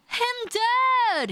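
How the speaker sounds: high, breathless gasp of shock. Acted. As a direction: blurt the name in disbelief. Learns of David's death.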